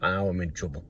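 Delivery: soft, worried aside to himself; worried thought. Retold or imitated. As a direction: breathe it out as dread sinks in. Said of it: "I thought".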